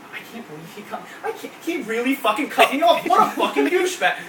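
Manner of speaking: muttering then rising to a mock angry rant; mock road rage. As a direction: fume at the driver who cut you off. Comedian acting angry driver rant.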